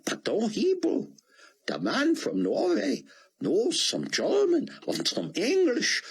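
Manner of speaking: high, breathless awe building to a cry; awed rabbi. Acted. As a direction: pour it out, shaken by wonder. Rabbi overwhelmed by the miracle.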